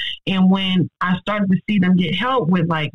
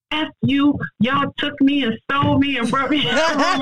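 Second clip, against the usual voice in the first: delirious patient's outburst; 7 semitones higher than usual. Retold or imitated. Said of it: "she's like".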